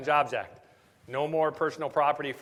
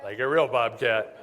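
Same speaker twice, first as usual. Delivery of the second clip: laughing confirmation; 2 semitones lower, 4 dB louder than usual. Retold or imitated. Answering the caller's confusion about the bobcat, laughing.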